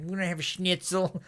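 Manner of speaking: badly faked American; terrible American accent. Asking if he's American in Germany, bad American accent. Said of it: "It's a terrible American accent".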